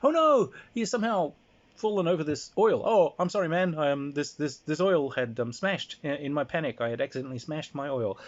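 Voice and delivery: high, falsely sorry voice; mock innocent apology. Schemer feigns innocence to Toxic Bastard, high and mock sorry. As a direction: play the innocent bystander. Fake apology after trap.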